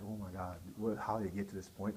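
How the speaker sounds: low, very soft self-questioning; subdued dismay. Retold or imitated. Husband to himself on a sleepless night, hushed dismay. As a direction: drop the voice as if thinking aloud in regret.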